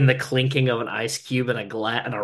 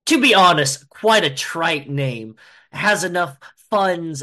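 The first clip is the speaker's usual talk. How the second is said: scoffing executive; 3 semitones higher than usual. Acted. Executive dismissing a threat of being shut down, scoffing. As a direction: laugh into an incredulous, emphatic rebuttal.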